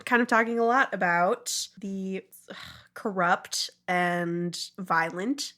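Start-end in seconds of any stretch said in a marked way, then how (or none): none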